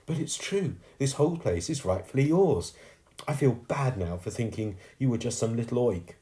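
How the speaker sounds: put-on girl's voice, pitched well up; sincere young heroine. Girl admits the sweep owns the Hall, sincerely.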